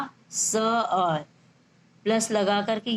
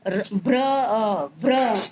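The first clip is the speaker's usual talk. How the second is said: slow syllables; much slower than usual. Shown as a demonstration. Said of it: "जैसे इसमें भ्रम".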